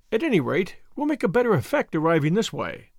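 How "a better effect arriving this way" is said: ordinary delivery, nothing marked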